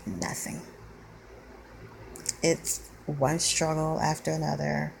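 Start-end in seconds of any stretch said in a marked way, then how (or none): 0.1-0.6 a bare breath of a word, holding back tears; whispered despair. Real, not acted. Alone on camera, venting about her life, whispered despair. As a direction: let it fall out almost voiceless, near crying. Trying not to cry, despairing.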